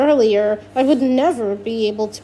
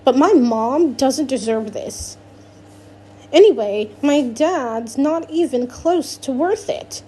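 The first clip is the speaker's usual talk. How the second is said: put-on angry teen; 2 semitones higher than usual. Alex angrily accuses Miss Teak.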